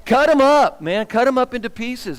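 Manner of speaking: preacher getting carried away by the threat; fired up. Real, not acted. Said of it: "I'm getting fired up".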